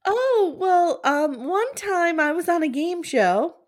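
high, chirpy storytelling; sweetly boastful contestant; Ellen voice. Pretend. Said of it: "I'll be her".

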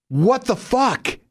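slow, drawn-out high what the fuck; high, slow exasperated what the fuck; incredulous outrage. Acted. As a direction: let the disbelief stretch out. Outraged punchline.

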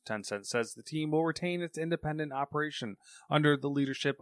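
newsreader voice; news read. Acted. Reads a news story.

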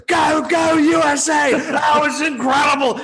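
high, shouted goal call; fired-up commentator losing his mind; Ian Darke. Retold or imitated. Imitating the commentator on another goal, wildly excited. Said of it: "He gets fired up".

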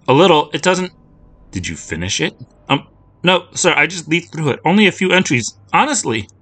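pleading her innocence to a menacing man; frightened girl. Acted. Lucy frightened, questioned by man.

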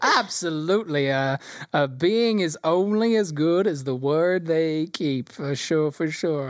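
slow, drawn-out showman reply; gnome announcer in agreement. Acted. Announcer man vouching for keeping one's word, slowly. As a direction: agree slowly and weightily, in character.

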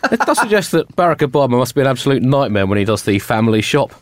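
ordinary talk, nothing marked

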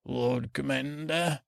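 slow, weighty, lightly voiced Stannis; a hint of stern Stannis, said slowly; Stannis's loaded look. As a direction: drag out the title with a silent stare behind it. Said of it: "I just love sa".

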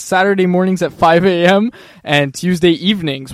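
loud, slow hyped-up announcement; hype voice. Shown as a demonstration. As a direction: sell it like a hype man. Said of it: "Get your hype voice going".

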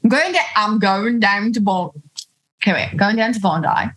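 tentative put-on Aussie accent; attempted Australian accent. Shown as a demonstration. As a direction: search for an Australian accent, restarting. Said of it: "What do Australian people say?".

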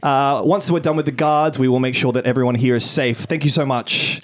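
high, sweet cabin-crew announcement; flight attendant voice. Acted. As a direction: reassure the hostages like a flight attendant. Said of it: "flight attendant voiceover".

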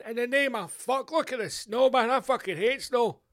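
high, loud ranting quote; mock outrage. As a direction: rant as a disgusted householder, hammed-up. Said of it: "Think some wee Inuits opened the door and went".

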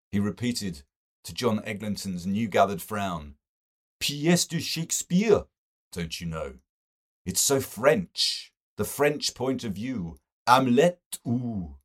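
effusive and delighted, savouring the French; enthusing to the circle about French Hamlet; Mister Best. Acted. Mister Best's gushing dialogue.

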